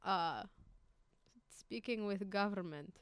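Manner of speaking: slow, halting mock Russian accent. Shown as a demonstration. Showing co-host how a Russian would say it, Russian accent. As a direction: put on a deliberate Russian accent, feeling for words. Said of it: "you have to do a Russian accent".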